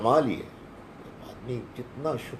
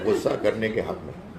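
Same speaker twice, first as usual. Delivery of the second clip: amused remark. Real, not acted. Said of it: "آپ نے ایک بہت کنونسنگ تقریر کی ہے".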